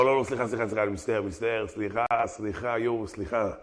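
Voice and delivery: soft, repeated apologies trailing off; mock sheepish apology. Gentile begging the Jew's pardon after the threat, mock sheepish. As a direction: apologize meekly, fading away.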